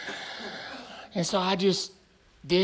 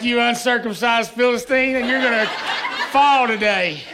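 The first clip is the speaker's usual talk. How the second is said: louder laughing battle cry of a hero; mock David battle cry; 4 semitones higher, 3 dB louder than usual. Counselor playing David against the camper, laughing mock battle cry. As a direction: declare it like David facing Goliath, laughing. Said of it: "I'm like".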